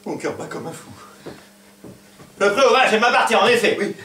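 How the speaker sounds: faint whisper. Acted. Suitor faint, half-conscious.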